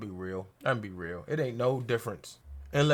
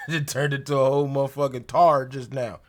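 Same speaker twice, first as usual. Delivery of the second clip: laughing; 3 dB louder than usual. Real, not acted. Laughing at his own slip.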